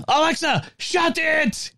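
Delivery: high-pitched mock Scottish scolding; Scottish accent. Dad scolding Alexa for butting into family talk, Scottish accent. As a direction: put on your best comic Scottish accent. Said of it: "in my best Scottish accent".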